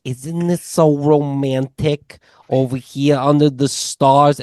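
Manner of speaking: lightly voiced, high and dreamy; dreamy romantic. Girlfriend coos at him under the night sky, dreamy and romantic. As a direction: coo it like a swooning girlfriend. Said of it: "And she's like".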